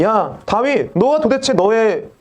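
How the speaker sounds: acted scornful needling; mocking jeer. People jeering at a fallen David, mocking. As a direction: needle him with one jibe after another. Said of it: "다윗을 조롱하는 거예요".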